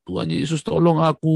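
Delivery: loud, high cry for help; retold desperate plea; pleading cry. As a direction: cry out from rock bottom. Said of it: "saya udah di bawah sekali".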